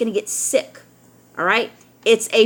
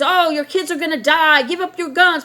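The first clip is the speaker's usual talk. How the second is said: higher, lightly mocked alarm; mock scaremongering; 5 semitones higher than usual. Scaremongers warning parents about guns, mock alarm. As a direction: imitate alarmists whipping up fear. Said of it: "They scare you with mass shootings".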